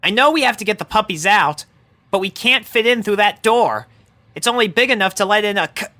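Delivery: pony talking to her tortoise briskly; quick explaining. Acted. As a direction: rush the explanation to a pet. Rainbow explaining to Tank.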